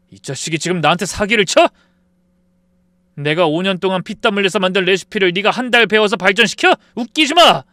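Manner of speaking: high, loud yelling accusation; shouting at the friend who stole his recipe; furious shout. Acted. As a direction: blast him with the betrayal.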